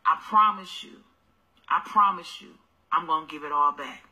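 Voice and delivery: put-on low, soft coaxing boyfriend; a hint of a smooth-talking man; sweet-talking man. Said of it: "Y'all will hear this kind of talk".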